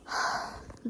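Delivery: heavy weary exhale; tired sigh. Real, not acted. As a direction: sigh out the exhaustion. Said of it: "my actual state right now".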